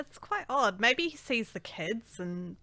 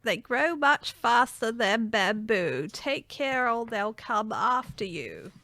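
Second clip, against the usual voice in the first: nanny voice; slower than usual. Acted. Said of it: "Sounds like a nanny now".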